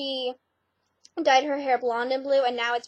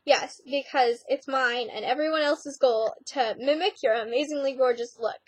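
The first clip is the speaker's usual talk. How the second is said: sarcastic. Retold or imitated. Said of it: "And that was sarcasm".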